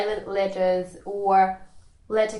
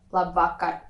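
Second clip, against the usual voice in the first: "labvakar" with the weight on VA; stress on second syllable; 2 semitones lower than usual. Shown as a demonstration. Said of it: "the stress is on the second syllable".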